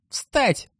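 high creaking ghost command; creaky dead man's voice. Acted. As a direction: creak out the order, high and hollow. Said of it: "скрипит голос покойного".

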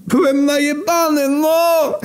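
very high, wailing excuse; nearly crying. Acted. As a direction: plead at the edge of tears. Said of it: "Śmierć prawie płakał".

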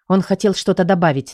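ordinary delivery, nothing marked

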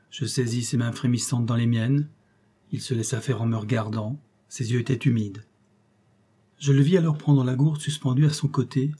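usual speaking voice

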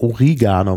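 "Oregano" with an i, stressed on that second syllable; Latin pronunciation. Shown as a demonstration. Host offers guest the Latin form, "Oregano" said o-RI-ga-no. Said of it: "weil es auf Lateinisch tatsächlich Oregano heißt".

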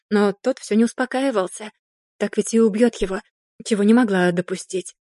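ordinary delivery, nothing marked

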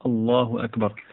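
أكبر with a still R and no vowel, akbar; the right way, أكبر ending on a silent R; correct silent r. Shown as a demonstration. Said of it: "بل يقول الله أكبر". (أكبرْ بسكون الراء صحيحًا)

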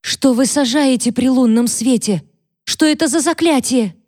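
high, rising frightened questions; a scared girl demanding answers; panicked girl. Acted. Catherine, terrified, questions Mary about a spell in a high voice.

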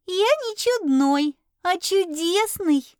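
high, slow squeaky pride; the fluffy pet squeaks proudly, stressing не. Acted. To his owner, the little familiar proudly squeaks a correction. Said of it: "гордо пропищал".

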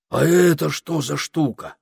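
high, loud eager question; agog, high-pitched wonder; excited. A narrator's reading. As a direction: ask with bursting curiosity. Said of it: "От возбуждения глаза у Этельреда выпучились".

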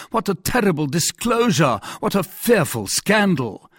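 dismayed warning. Acted. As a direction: impress the danger on the listener. Cardinal warns of scandal.

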